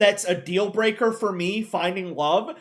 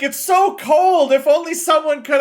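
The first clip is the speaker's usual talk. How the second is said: mock flirty hint; 6 semitones higher, 5 dB louder than usual. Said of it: "She's like".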